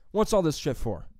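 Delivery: mildly irritated retold challenge; a touch of imitated annoyance; pissed off. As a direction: challenge like an annoyed gym-goer. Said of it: "already pissed off".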